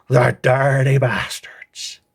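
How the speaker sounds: a slow, breathy whispered insult. Acted. Whispering an insult at the screen in disgust. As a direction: hiss it under your breath, slowly.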